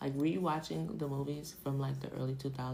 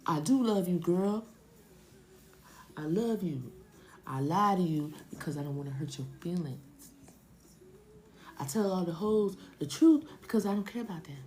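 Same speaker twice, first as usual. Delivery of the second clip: a loud, cocky man sweet-talking; hammed-up cheating boyfriend voice; mock lying boyfriend; 3 semitones higher, 3 dB louder than usual. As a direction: play the smooth liar, half joking. Voicing a lying man to Yvette.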